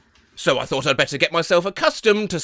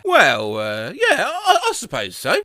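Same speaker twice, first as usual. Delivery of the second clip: laughing; 2 semitones higher than usual. Real, not acted. Daughter's embarrassed answer.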